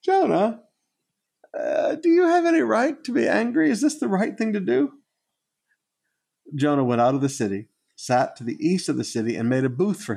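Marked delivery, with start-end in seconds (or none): 0.0-5.0 voicing God. God's words voiced, laughing preacher.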